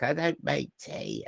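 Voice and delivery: nasal scratchy intern. Retold or imitated. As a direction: murmur it back in his scratchy voice. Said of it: "he has this really nasally, scratchy voice".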